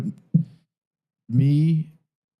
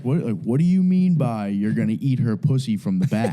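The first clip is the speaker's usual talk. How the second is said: laughing quote. Retold or imitated. Retelling a clip, laughing through it.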